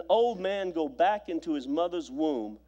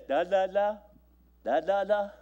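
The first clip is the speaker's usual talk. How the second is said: sing-song nonsense syllables like cooing to an infant; baby talk. Shown as a demonstration. Preacher mimicking how parents talk to babies, in baby talk. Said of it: "Say this".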